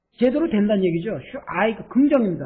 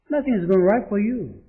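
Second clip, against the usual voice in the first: slow model read; much slower than usual. Shown as a demonstration. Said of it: "teacher models the sentence".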